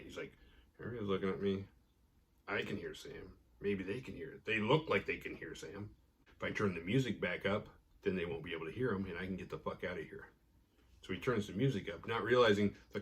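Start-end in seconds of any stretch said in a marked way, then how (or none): 0.8-10.3 hushed, paranoid thinking aloud. Retold or imitated. Marty frets to himself about being overheard, mildly paranoid. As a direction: act out uneasy, softly spoken self-talk. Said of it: "really just paranoid".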